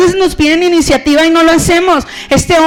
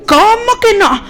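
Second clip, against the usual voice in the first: haughty Jezabel; 3 semitones higher than usual. Retold or imitated. Jezabel boasts and takes ring.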